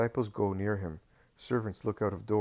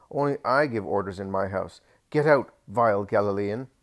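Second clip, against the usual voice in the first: much louder, squeaky fox-like shout; 8 dB louder than usual. A narrator's reading. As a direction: shriek him out of the house. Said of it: "he shouts with his squeaky voice, like a fox's".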